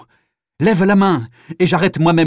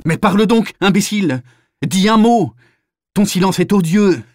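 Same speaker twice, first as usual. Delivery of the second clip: loud, higher, raging at a silent prisoner; furious shout; 6 semitones higher, 5 dB louder than usual. Acted. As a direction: shout him down while shaking him. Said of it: "le secoue brutalement".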